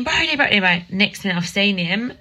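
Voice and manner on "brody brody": retold scream. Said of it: "I'm screaming".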